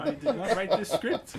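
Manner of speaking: high mock Asian accent, laughing. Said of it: "in his Asian accent".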